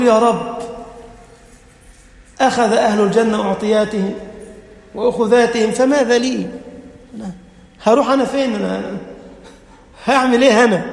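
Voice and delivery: a touch of desperate whining; lightly voiced servant asking where to go; pleading servant. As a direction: mildly act the lost, worried servant. Servant pleading, no place left.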